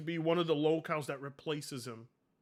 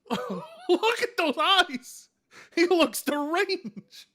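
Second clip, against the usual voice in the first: disgusted; 7 semitones higher, 4 dB louder, slower than usual. Real, not acted. Disgusted exaggerated reaction.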